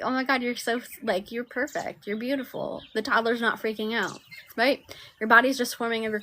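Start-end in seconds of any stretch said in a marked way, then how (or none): 0.0-2.8 higher, soft doting parent voice. Retold or imitated. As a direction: coo over a fallen toddler. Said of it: "the parent's like".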